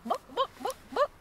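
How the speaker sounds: a hint of a clucking chicken; lightly voiced chicken saying book; chicken squawk. A chicken squawking at the librarian, lightly clucked. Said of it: "it squawks".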